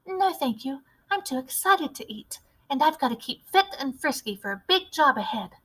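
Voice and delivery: put-on a keen little boy with a clever plan; eager mouse boy. Narrator voices mouse boy.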